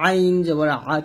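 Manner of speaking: "আ" squeezed from mid-throat; pressed ayn. Shown as a demonstration. Teacher demonstrating the Arabic letter ayn, pressed throat sound. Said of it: "চাপ দিয়ে".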